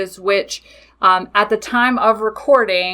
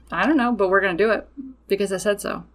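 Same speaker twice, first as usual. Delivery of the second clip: breezy certainty; faster than usual. Retold or imitated. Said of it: "when I say stuff like this".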